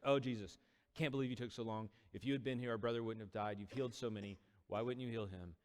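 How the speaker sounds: mildly exasperated, grieving complaint; acted reproach. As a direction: plead and blame, lightly acted. Second sister acts out same reproach.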